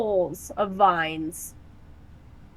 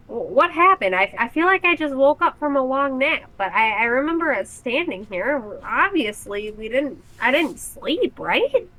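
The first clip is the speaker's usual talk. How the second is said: confused Oog; 6 semitones higher than usual. Acted. Oog confused after trance.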